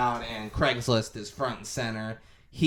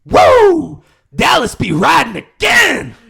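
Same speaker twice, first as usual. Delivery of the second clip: high whooping shout; hype yell; 14 dB louder, slower than usual. Retold or imitated. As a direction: whoop it like a pumped-up showman. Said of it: "I've said that twice".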